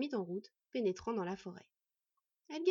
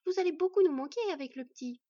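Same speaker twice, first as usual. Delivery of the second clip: higher, louder heartfelt goodbye; with emotion; 7 semitones higher, 8 dB louder than usual. Acted. Hostess telling guests they will be missed, with emotion. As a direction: speak it with feeling. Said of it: "avec émotion".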